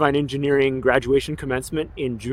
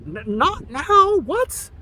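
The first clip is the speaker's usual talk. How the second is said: slow, halting inner disbelief; a stunned inner thought, said slowly; 11 semitones higher, much slower than usual. Retold or imitated. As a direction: drag it out, caught off guard. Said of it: "in my head, I'm like".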